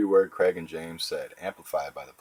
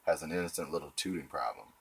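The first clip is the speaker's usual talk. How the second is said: fake sympathetic; 3 dB louder than usual. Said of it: "Using the weasel defense, I'd say".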